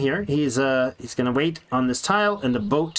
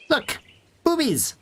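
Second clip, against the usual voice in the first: excited shout; 11 semitones higher, slower than usual. Real, not acted. Spotting the birds, excited.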